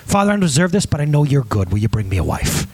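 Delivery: understated request to a father, falling away; humble prayer. Retold or imitated. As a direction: lightly imitate a modest prayer, letting it settle down. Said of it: "There's a different style of prayer".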